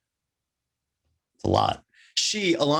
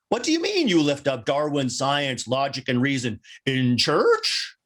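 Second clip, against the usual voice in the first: incredulous questioning. Retold or imitated. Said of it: "the incredulity driving the emphasis on that word up and up".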